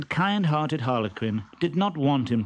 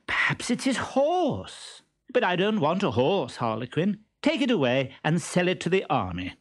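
loud Columbine; 6 semitones higher than usual. Acted. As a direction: play dumb loudly for the trunk. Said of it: "she said very loudly".

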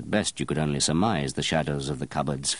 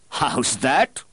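loud cry; 8 semitones higher, 4 dB louder than usual. Acted. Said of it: "cried Baldini in a rather loud voice".

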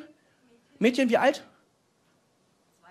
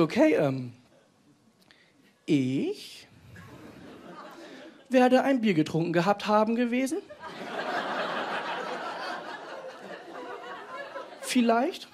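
unsure mumble; 8 dB quieter, slower than usual. Retold or imitated. Chris fumbles a grammar answer.

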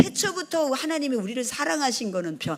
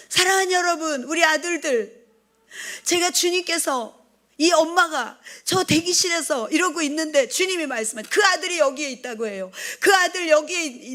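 higher, eager call to the soldiers; excited address; 6 semitones higher than usual. Retold or imitated. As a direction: burst out to the crowd of soldiers. Her excited first words to soldiers. (신나게 들뜬 목소리로)

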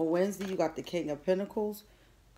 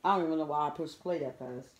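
talking through a mouthful of chips; mouth full. Real, not acted. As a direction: chew and talk at once. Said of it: "I got chips in my mouth".

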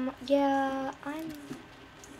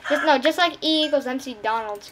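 insistent pun shout. Shown as a demonstration. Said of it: "Get it?".

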